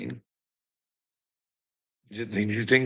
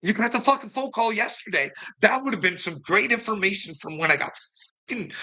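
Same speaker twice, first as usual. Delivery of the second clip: much higher, sarcastic disbelief; incredulous retort; 9 semitones higher than usual. Retold or imitated. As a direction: throw it back at him in disbelief, high. Retold disbelief at officer's answer.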